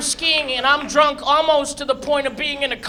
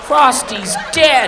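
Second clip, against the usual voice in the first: put-on wailing kid; much slower than usual. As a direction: wail it like a heartbroken kid. Crying kid repeats louder.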